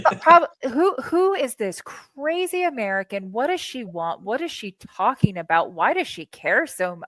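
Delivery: mock-bewildered questioning of a crazy stranger; bewildered disbelief. Imagines his bewildered reaction to her.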